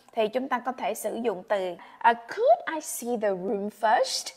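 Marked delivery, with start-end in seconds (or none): 2.1-4.3 slow, very polite request; extra polite. Shown as a demonstration. Teacher contrasting polite could with can, said courteously. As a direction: ask as politely as you can. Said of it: "Thì kiểu mình quá lịch sự đi".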